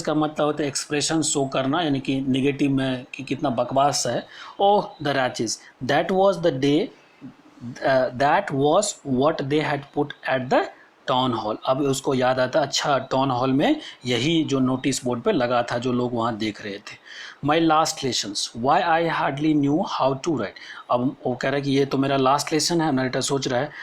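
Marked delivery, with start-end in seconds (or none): 4.6-11.6 slow, deliberate classroom reading; measured textbook reading with pauses; read-aloud text. Acted. Reads the story text aloud. 17.4-20.6 slow, deliberate classroom reading; measured textbook reading with pauses; read-aloud text. Acted. Reads the story text aloud.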